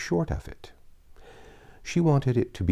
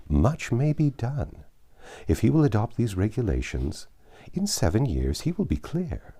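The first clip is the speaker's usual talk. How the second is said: Lady Russell lightly voiced. Lady Russell advises Anne at length.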